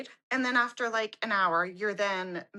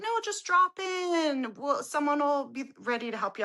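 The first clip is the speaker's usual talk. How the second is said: breezy staffer; 6 semitones higher than usual. Retold or imitated. Staffer answering her appointment email, breezy imitation. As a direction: imitate a staffer sweetly waving away the request.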